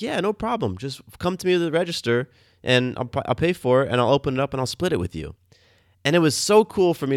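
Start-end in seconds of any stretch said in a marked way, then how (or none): 0.0-5.3 lightly imitated lady, pitched high then easing down; airy, higher-pitched retelling of her easygoing offer; helpful lady shopper. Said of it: "she's like".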